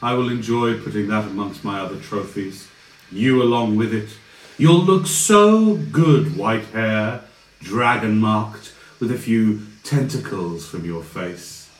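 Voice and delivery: a gloating villain savouring trophies. Acted. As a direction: relish the threat.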